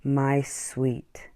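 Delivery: breathy soft whisper. Acted. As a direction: whisper it tenderly. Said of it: "Matthew whispered".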